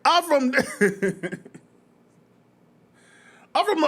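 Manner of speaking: high, laughing hometown shout; mock gang shout-out. A stranger in a restaurant claiming his hood, half-laughing high shout. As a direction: shout your neighborhood proudly. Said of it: "someone starts saying".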